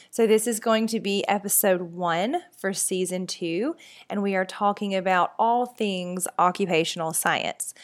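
talking through a stuffy nose; blocked nose from a cold. Real, not acted. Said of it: "if I sound a little bit stuffy, it's because I am".

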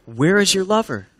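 measured, caring offer; earnest concern. Acted. Friends offering to go find her lover, earnestly supportive. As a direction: offer help plainly and deliberately.

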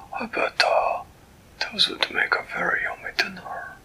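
a delighted, fussy creature greeting a friend; Flibbertigibbet's voice. Acted. Storyteller voicing Flibbertigibbet greeting Winella, high and delighted.

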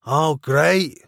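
unimpressed aside; muttered to himself. A narrator's reading. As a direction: grumble half to oneself. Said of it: "as much to himself as anyone else".

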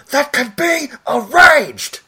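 slow, high villain shout; full volume. Retold or imitated. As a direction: roar it with passion. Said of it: "full volume".

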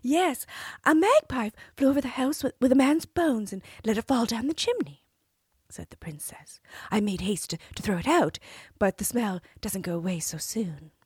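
high, sweet princess voice; cartoon princess. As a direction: play the innocent princess. Princess voiced in fairy tale.

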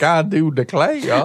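high, slow Southern belle drawl; mock a genteel Southern belle; Blanche Devereaux. Teasing the cohost by copying her, high Southern drawl. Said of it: "your impression of Blanche Devereaux".

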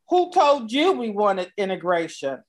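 book title with a touch of sass; lightly sassy challenge, understated; a little sass. Real, not acted. Host reading out her guest's book title, a little sassy. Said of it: "that little sass up in there".

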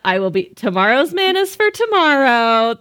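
lightly prayerful plea, slowed on bread; half-joking prayer voice; a hint of pulpit prayer; mock prayer. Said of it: "I'm making Bible references".

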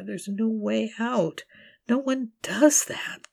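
high, unvoiced broken whisper; despairing whisper. In the dark with the knife, whispering her shame in despair. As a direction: let it crack into a hopeless whisper.

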